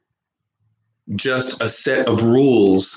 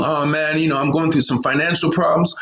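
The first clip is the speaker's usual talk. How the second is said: slightly higher, quick confiding reply; mild buddy voice; lightly voiced friend; 5 semitones higher, faster than usual. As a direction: spill it casually and fast. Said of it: "how we talk in America".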